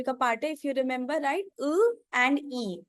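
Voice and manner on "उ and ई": उ and ई as two separate vowels; two drawn-out vowel sounds, उ and ई. Shown as a demonstration. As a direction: say उ, then ई, slowly and apart. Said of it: "तो ये क्या बन जाता है".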